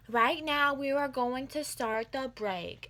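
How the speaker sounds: loud, slow proctor announcement; bossy announcement. Retold or imitated. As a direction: announce the break to the whole room. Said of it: "she's like".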